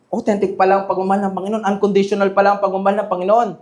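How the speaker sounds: lightly acted, hurried rationalizing; mock casual reasoning. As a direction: rattle it off like easy self-justification. Voices a believer excusing wrongdoing.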